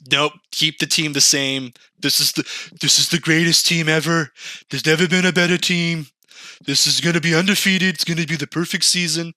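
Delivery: high, fast overconfident robot boast; smug AI voice. Retold or imitated. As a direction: brag like a know-it-all machine.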